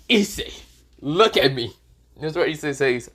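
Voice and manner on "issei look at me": raised, demanding call to get attention; mock yell. A narrator's reading. Drake screaming at his container to listen, mock yell. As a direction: call out sharply, higher on the name. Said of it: "Drake is literally screaming at his container".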